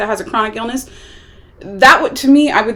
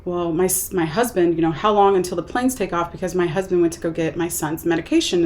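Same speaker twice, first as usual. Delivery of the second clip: lower, casual imitation of an unthinking wife; offhand mention; 4 semitones lower, 5 dB quieter than usual. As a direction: toss it out without thinking. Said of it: "kind of not even thinking about it".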